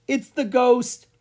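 high, drawn-out cry of alarm; alarmed exclamation. A narrator's reading. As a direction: exclaim it slowly and high, spooked. Child reacts to haunted voice.

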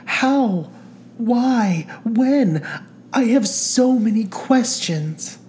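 high, rushed, breathless questions. A narrator's reading. Carolyn overwhelmed by the news, high breathless questions. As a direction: gasp out each question in disbelief. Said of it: "struggling to catch the breath in her chest".

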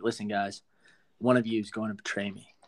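low, solemn retold Jesus; all serious. Jesus addressing all the disciples at the feast, serious. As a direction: gravely break the news, lightly acted. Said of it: "like, all serious. He's like".

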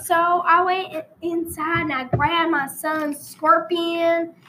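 hammed-up rural Texas storyteller; country Texan accent, played for laughs; put-on Texan accent. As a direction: spin a yarn in a fake Texan drawl. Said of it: "I'm gonna change accents for a while".

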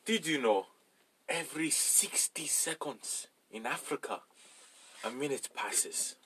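Big Man Tyrone. Acted. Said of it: "Do the Africa thing".

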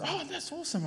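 high-pitched friendly quote; mock high reply. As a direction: toss it off high and breezy. Quoting pastor friend's reply.

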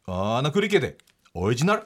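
アーナクリケで オリジナル as reversed gibberish; backwards speech. Shown as a demonstration. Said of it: "ラジオできるかなの逆行は".

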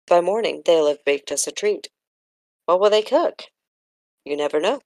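read-aloud with lilting, lifted dialogue; story narration. Acted. Reader voicing Lena and Kendra on brownies, story narration.

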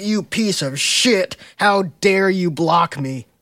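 slow, hammed-up fury; mock angry rant. Host mimics Outlaw yelling in the game, slow mock anger. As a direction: bellow it like a cartoon villain.

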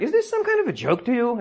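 high-pitched indignant scolding; mock angry yell. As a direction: imitate an upset woman yelling, pitch way up. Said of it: "she starts yelling at me".

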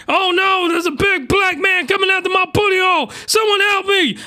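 hammed-up shrieking cry for rescue; mock scream for help. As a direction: yell for help like a cartoon victim. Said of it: "I hope I'm not in the streets screaming".

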